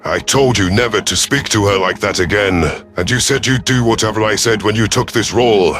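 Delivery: growled reprimand. Acted. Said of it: "I growled".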